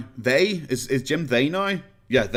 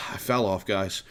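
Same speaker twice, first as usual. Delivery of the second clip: sighing, softer, mock dejected; mock self-pity with a sigh; mock sulk; 4 semitones lower, 4 dB quieter than usual. Shown as a demonstration. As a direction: sigh it out like a hammed-up loser.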